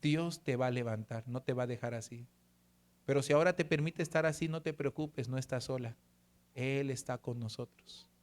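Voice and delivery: hushed sincere comfort to his wife; tender reassurance. Real, not acted. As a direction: gently console a wife in pain. Le dije.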